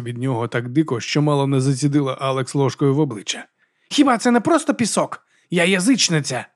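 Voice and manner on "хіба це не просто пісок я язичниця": high, rough voice of a wild werewolf woman; Vigga's voice. Acted. Vigga puzzles over the pilgrims, in a high brash voice.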